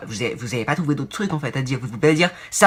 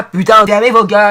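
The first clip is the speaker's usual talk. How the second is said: angry shout; 6 semitones higher, 12 dB louder than usual. Real, not acted. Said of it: "ranting at viewers' phrases".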